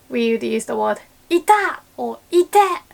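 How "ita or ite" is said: pained cry. Retold or imitated. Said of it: "we would usually just scream".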